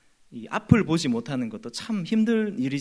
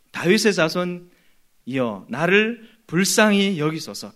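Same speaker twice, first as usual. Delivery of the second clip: slow, drawn-out retold cry for mercy; imitating an earnest call for help; earnest plea; slower than usual. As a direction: plead slowly, stretching each phrase. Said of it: "간절합니다".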